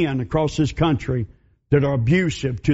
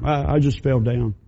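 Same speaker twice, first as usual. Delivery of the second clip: lower, hesitant stammer of a woman hiding the truth; timid battered woman; 5 semitones lower than usual. Acted. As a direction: stammer the excuse, eyes down. Mary hiding abuse.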